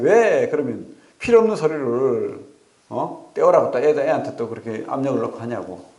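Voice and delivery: mildly heated, reliving the argument; retold angry complaint. Preacher retelling his complaint to the school, mildly angry. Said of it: "화가 막 나는 거예요".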